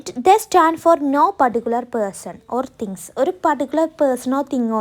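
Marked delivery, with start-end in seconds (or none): 0.0-3.0 each word spaced for writing; slow dictation. Shown as a demonstration. Teacher dictating a sentence to students, very slow. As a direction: dictate slowly so students can copy. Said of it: "dictating the definition".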